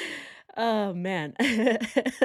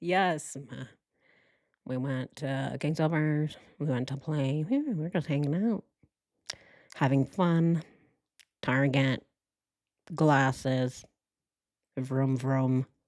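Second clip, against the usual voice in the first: very low, emotionless, flat monotone drone; 7 semitones lower than usual. Speaker acting out how a man answers questions, imitating his monotone talk. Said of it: "All he's doing is monotone, no emotion responses".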